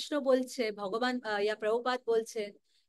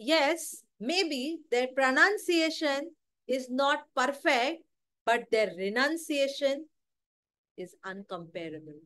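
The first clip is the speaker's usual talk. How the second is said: quoting Prabhupada; much slower than usual. Retold or imitated. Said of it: "তো প্রভুপাদ বলে".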